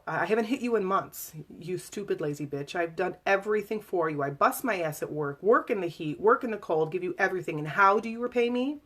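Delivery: angry rant. Retold or imitated. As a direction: vent the grievance with rising anger. Abusive husband's rant.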